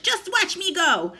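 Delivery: high, slow crone voice; old hag gloating as she grows; screechy boast. A narrator's reading. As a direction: gloat slowly, drawn out. Grandma boasting.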